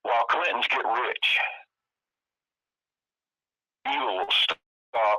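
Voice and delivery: pleading for the forgotten veterans, voice lifting; real emotion, pitch rising with feeling; emotional. Real, not acted. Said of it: "sorry if I get a little bit, emotional about it".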